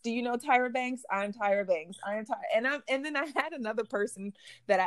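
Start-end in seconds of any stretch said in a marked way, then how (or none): 0.0-2.4 loud, proud celebrity act; diva posing as Tyra Banks. Retold or imitated. Posing for curious tourists, playing a supermodel, loud and proud. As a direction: strut it like a supermodel. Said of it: "here I go, like".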